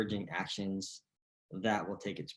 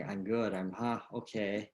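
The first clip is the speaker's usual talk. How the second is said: flat everyday reply. Shown as a demonstration. Coach shows the dull answer players should drop. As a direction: say it like nothing's new. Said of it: "no longer say".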